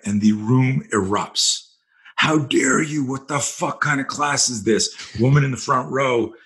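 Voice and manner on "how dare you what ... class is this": mock outraged outburst, pitched a little up; retold yell, only mildly raised; retold outraged scream. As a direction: imitate an indignant woman blowing up. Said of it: "screams at me".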